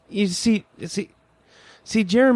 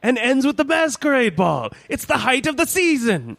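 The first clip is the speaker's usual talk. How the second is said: posh voice. Acted. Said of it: "Why do I bother with this posh voice?".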